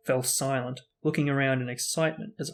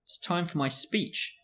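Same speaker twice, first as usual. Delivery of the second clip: loudly; 5 semitones higher than usual. Acted. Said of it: "said Nearly Headless Nick loudly".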